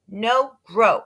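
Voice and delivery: put-on a little kid's flat refusal; toddler refusing. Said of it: "said Fudge".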